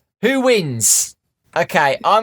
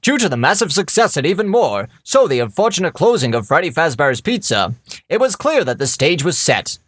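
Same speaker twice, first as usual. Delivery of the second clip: over-articulated. Acted. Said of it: "the over-articulation, I like that".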